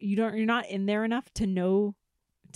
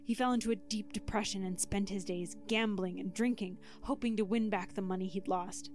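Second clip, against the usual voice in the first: lightly dramatic storyteller; spooky story narration. Acted. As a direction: tell it like a campfire tale. Reads spooky story with music.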